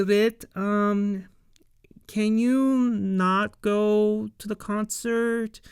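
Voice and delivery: hushed, careful whisper; nervous whisper. Retold or imitated. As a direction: whisper it like you're walking on eggshells. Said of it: "walking on eggshells".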